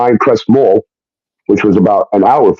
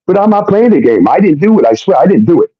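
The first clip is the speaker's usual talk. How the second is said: higher-pitched imitation of a protesting fiancée; mock-pleading denial in a raised voice; mimicking her denial; 8 semitones higher than usual. Imitating fiancée denying the accusation.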